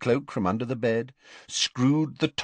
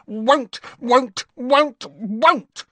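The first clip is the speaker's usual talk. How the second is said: high, slow croaking elf voice, louder each time; croaking house elf; 7 dB louder, much slower than usual. A narrator's reading. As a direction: croak it out like a stubborn little elf. Elf keeps croaking refusal.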